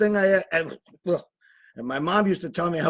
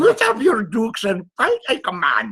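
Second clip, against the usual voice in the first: put-on Irish accent; 3 semitones higher than usual. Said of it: "How was that, folks?".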